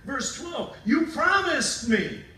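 high, loud plea to God; Jacob pleading. Retold or imitated. Jacob praying to God for rescue, loud and pleading. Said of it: "Then Jacob prayed".

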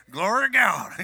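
loud Texan revival shout; Texan accent. Shown as a demonstration. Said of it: "with more of a Texan accent".

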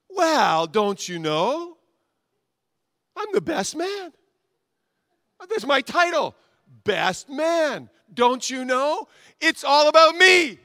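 high, loud, self-important whine; smug best man. Acted. The best man bragging to the pastor, high and loud. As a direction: puff yourself up, it's all about you.

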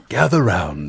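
low hushed campfire storyteller; hushed creepy legend telling. Pretend. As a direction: lean in and murmur like a legend. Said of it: "just like primitives around the campfire".

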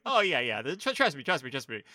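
loud, hurried mock reassurance; lightly played director brushing off doubts; mock laughing director. Imagined director talking someone into it, mock breezy. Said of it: "imagine him just laughing to be like".

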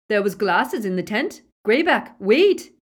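rising to a high, loud cry; urgent call. A narrator's reading. A Snatcher calls out to stop Greyback, urgent high shout.

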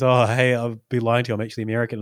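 imitating a put-on American accent; a hint of mock American; fake American accent. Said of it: "puts on this obviously fake American accent".

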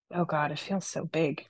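soft whisper with breath. A narrator's reading. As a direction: whisper it close and hushed. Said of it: "she whispered as I held".

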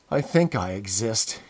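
tired, resigned sigh of a voice; weary. Acted. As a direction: say it like you have no fight left. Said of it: "he said wearily".

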